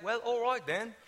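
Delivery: mock-British sign-off; lightly British farewell; imitation British accent. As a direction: copy her British politeness. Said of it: "you wanna talk like them".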